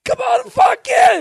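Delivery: high, loud mock holler; shouted invitation. Homeowner waving a stranger inside, mock shouting. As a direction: holler it like an over-eager host.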